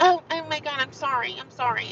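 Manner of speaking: flustered apology. Retold or imitated. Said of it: "She's like".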